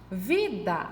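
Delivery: "Vida" slowly split into two syllables. Shown as a demonstration. Teacher counting syllables for pupils, "Vida" said syllable by syllable. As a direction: draw out each syllable of "Vida". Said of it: "tem duas sílabas".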